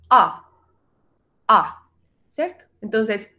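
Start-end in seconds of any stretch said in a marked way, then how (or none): 0.1-1.9 "A" repeated with a slight O colour; A con algo de O. Shown as a demonstration. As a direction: model "A" tinged with O, as a separate sound. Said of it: "tiene un poquitico de O". ("A" con un poquitico de O)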